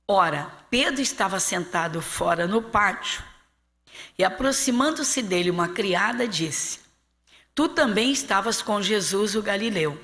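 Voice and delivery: measured, projected Bible narration; scripture reading. Acted. Pastor reads Peter's denial to the congregation, measured projected reading. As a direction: read the passage out clearly, phrase by phrase.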